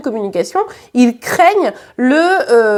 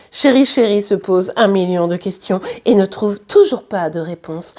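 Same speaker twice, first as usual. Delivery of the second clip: lower, formal announcer read; 5 semitones lower than usual. Pretend. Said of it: "je fais ma voix de speakerine".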